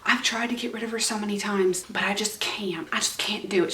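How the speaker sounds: lightly put-on Southern accent, soft. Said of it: "I'm doing a Southern accent".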